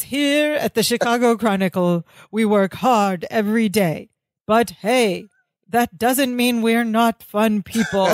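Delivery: mildly modulated bad-actor line reading. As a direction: keep a hint of the labored performance. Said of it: "kind of in the same delivery. He didn't really unmodulate that much, a tiny bit".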